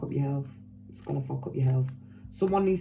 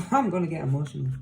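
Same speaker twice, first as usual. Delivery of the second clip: laughing it off; faster than usual. Real, not acted.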